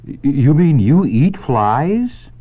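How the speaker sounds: high, loud, slow gasping horror; gasped in shock. Acted. Wilbur the pig to Charlotte, gasping in horror. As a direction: gasp it out, stammering and aghast. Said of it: "gasped Wilbur".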